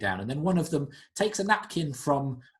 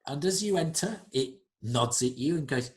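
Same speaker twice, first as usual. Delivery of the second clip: ordinary talk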